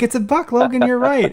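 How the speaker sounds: put-on high-pitched playful cheer to a child; retold excited dad. Dad confirms the buck to his daughter, excitedly retold.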